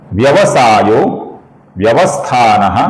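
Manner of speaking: slow, measured chanting of Sanskrit names; shloka recitation. Shown as a demonstration. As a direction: recite each name with a pause. (धीमा श्लोक पाठ)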